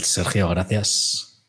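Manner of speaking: slow, lightly sultry thanks; a hint of a seductive host. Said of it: "Y con la voz sensual". (voz sensual lenta)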